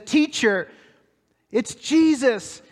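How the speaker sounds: overjoyed, drawn-out exclamation; joyful recognition. Acted. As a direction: burst out in amazed joy. Mary recognizes risen Jesus.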